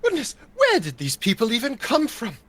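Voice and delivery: frivolous noble. Acted. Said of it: "something a little bit more frivolous".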